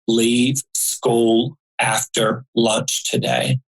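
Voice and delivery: slow, calm, measured command. Retold or imitated. Mysterious man's voice warns a child on the bus, very calmly. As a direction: say it slowly, evenly spacing each word. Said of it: "a man's voice very calmly said".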